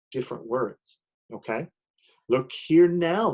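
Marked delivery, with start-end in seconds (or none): 2.3-3.3 higher, louder and slow, a creature squaring up; Zax's challenge. Acted. North going Zax confronting the Grust in the teacher's poem, with a loud slow challenge. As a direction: plant yourself and call out the blocker.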